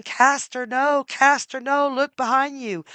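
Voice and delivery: high, loud frantic warning shouts; panicked cry of warning; desperate scream. Acted. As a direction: yell at your brother to turn round. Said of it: "Pollux was screaming".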